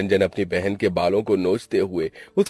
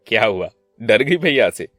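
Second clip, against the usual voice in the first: mildly affectionate elder brother; understated brotherly fondness; showing affection. Acted. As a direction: reassure a scared sister, with firm weight. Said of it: "प्यार जताते हुए कहा".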